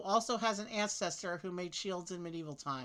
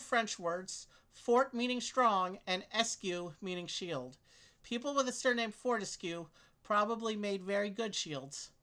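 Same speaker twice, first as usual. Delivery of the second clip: reading aloud; 3 semitones higher than usual. Acted. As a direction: clear read-aloud voice. Reads clue text aloud.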